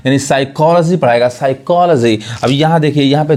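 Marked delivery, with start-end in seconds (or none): 0.2-1.0 साइकोलॉजी with silent P; correct pronunciation. Shown as a demonstration. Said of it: "वो पी नहीं पढ़ाएगा". 1.3-2.2 साइकोलॉजी with silent P; correct pronunciation. Shown as a demonstration. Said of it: "वो पी नहीं पढ़ाएगा".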